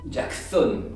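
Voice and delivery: "Jackson" with a lisped s, slushy. Acted. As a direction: lisp the s in "Jackson" like a sh. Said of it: "Puisque je zozote".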